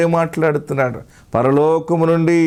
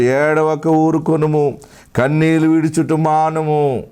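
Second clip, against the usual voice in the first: soothing divine command; 2 semitones higher than usual. Acted. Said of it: "యెహోవా ఈ ఆజ్ఞ ఇచ్చుచున్నాడు".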